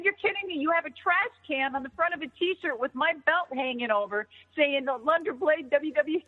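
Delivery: high-pitched, incredulous retelling; retold disbelief. Retelling reaction to the T-shirt.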